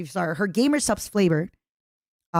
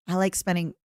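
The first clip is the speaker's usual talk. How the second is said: soft, slightly low mommy voice; lightly flirt, keeping it quiet; sexier mommy voice; 3 semitones lower, 5 dB quieter than usual. Pretend. Friend coaching a mommy voice, soft sexy attempt. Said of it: "try to sound a little sexier".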